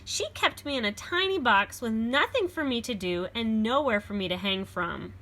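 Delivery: put-on lively read-aloud for children; storybook reading. A narrator's reading. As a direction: read it like a picture book to a class. Reads beast's version.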